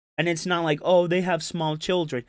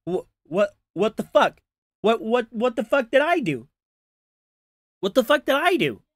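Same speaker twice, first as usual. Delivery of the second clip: bewildered outrage; 5 semitones higher than usual. Retold or imitated. Dead husband asking what he did wrong, rising outrage. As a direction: voice climbing higher with each what the fuck. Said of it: "You'd be like".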